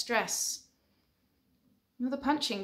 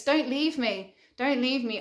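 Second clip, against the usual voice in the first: mock panic, a touch louder and higher; panicked plea; 3 semitones higher, 4 dB louder than usual. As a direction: imitate a partner panicking, begging. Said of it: "starts to panic".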